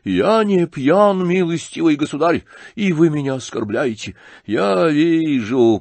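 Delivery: high, slow indignant protest; offended shouting. A narrator's reading. General insisting he is not drunk, offended shout. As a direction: protest loudly, stretching the first words. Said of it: "крикнул генерал".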